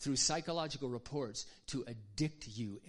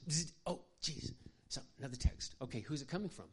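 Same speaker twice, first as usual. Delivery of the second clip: acting out a distracted mom. Shown as a demonstration. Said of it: "I'll show you what I see happening".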